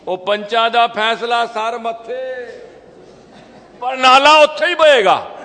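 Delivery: mock-respect the elders, then flatly refuse in Punjabi; Punjabi goon. The bully to the village council, defiant in Punjabi. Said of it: "वो क्या बोलता है?".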